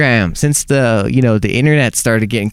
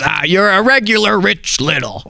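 high-pitched comic's reply; Gilbert Gottfried; 8 semitones higher than usual. Retold or imitated. Producer quoting the comedian's reaction to the impression, high voice. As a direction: retell it in the comedian's raised voice. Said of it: "and he goes".

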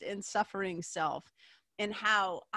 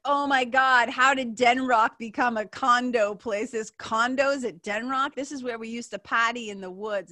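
loud, astonished exclamations; shocked disbelief; 3 semitones higher, 6 dB louder than usual. Retold or imitated. Driver spotting condos at old party spot, loudly astonished. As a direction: exclaim it, aghast, easing off toward the end. Retold shock at changed hometown.

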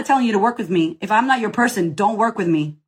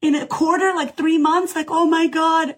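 mimicking her own high, overwhelmed disbelief; retold tearful excitement; 7 semitones higher than usual. Coach reliving her first big quarter, high and overwhelmed. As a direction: pitch up and gush like you can't believe the money. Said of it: "And I, I cried".

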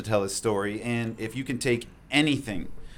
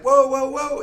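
high, louder startled whoa; 8 dB louder, slower than usual. Retold or imitated. Rescuer startled by a slapped hand, high whoa. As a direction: back off in surprise. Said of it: "I was like".

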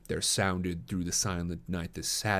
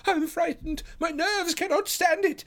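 high, loud, panicky plea; half blubbering with fear; 5 dB louder than usual. A narrator's reading. Sholto confesses his terror to his companions, blubbering high voice. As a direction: fall apart like a frightened child. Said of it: "half blubbering with fear".

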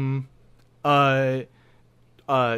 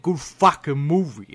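Boston accent. Shown as a demonstration. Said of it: "in that accent's really funny".

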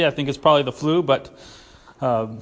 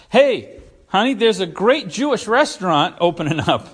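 a higher, louder mock call to a spouse; mock excited announcement; 3 semitones higher, 4 dB louder than usual. Someone who never existed calls his honey about a great Jewish restaurant, mock excited. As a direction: sell the news like it's thrilling, tongue in cheek. Imagined never-said line to wife.

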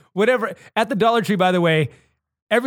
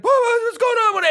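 high, frightened disbelief; a scared man caught off guard; panicked confusion. Retold or imitated. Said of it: "the guy's like".

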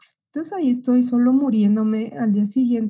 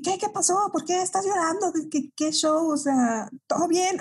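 worried dad; 5 semitones higher, 3 dB quieter than usual. Retold or imitated. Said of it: "los dos asustadísimos".

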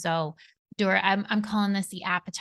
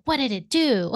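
puzzled question; 7 semitones higher, 6 dB louder than usual. Retold or imitated. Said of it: "you're like".

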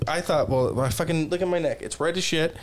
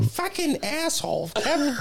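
laughing mock curse; 11 semitones higher than usual. Mom voiced cursing after call.

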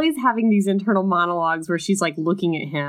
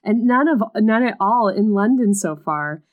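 sweetly; 5 semitones higher, 4 dB louder than usual. Acted. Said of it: "she added sweetly".

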